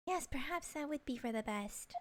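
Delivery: measured put-on British detective; lightly acted British gentleman; reply politely in a British accent. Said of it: "I gotta give him a British accent".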